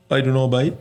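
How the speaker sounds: lightly imitated Cork lad; casual Cork lilt, offhand; Cork accent. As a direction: mimic a Cork mate shrugging it off. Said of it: "And he's like".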